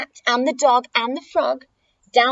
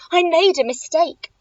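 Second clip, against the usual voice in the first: higher-pitched, nervous excuse; mildly flustered backing down; spluttering; 5 semitones higher, 3 dB louder than usual. Acted. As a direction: splutter it as a cowed dragon. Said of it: "he spluttered".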